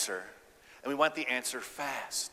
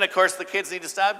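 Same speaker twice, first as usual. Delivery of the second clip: ordinary talk, nothing marked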